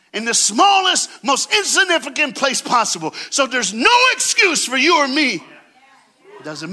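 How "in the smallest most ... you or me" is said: higher, louder shouted emphasis; preaching at full force. Acted. Preacher shouting about the lowly birth, full force. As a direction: hammer the point home to the crowd.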